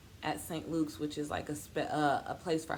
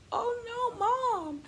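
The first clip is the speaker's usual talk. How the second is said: sympathetic nurse; 5 dB louder, much slower than usual. Retold or imitated. Nurse comforting the crying mother.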